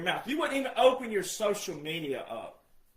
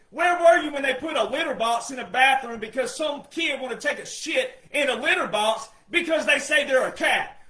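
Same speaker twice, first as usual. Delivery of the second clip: normal talking voice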